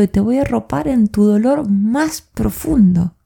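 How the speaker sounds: whispered to a grieving son; a mother whispering comfort to her grieving son; tender whisper. Retold or imitated.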